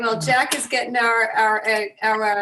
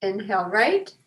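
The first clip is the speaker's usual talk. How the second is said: guided breathing. Real, not acted. Leads breathing exercise.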